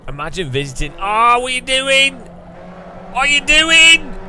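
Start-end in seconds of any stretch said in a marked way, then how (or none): 1.0-2.1 loud, high what are you doing; startled at a teammate's move; surprised. Real, not acted. Gamer reacting to a teammate's odd move, surprised. 3.1-4.1 higher, louder, slow what are you doing; incredulous. Real, not acted. Gamer repeating in disbelief at a teammate, incredulous.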